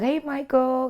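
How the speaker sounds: high lilting call of his name; sing-song. Retold or imitated. Woman calling her friend on the phone, high and sing-song. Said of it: "I'm still sing-songing with him".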